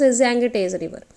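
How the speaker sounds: Ganges रिवर spelled out slowly, each syllable drawn out; slow dictation. Shown as a demonstration. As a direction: say Ganges रिवर slowly so students can note it down. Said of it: "teacher dictates river name slowly".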